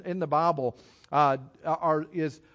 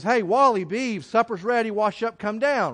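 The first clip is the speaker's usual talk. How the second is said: put-on mom calling kids; 3 semitones higher, 5 dB louder than usual. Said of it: "Mom, says".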